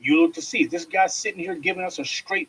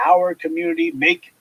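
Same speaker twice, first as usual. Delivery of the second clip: mocking kumbaya quote; 5 dB louder than usual. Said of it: "that same old kumbaya".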